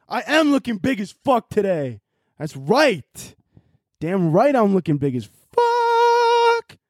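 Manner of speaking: high, slow strutting bro voice; hyped-up bro boast. Retold or imitated. Bragging to himself after the gym compliment, cocky high bro voice. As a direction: crow about how big you look.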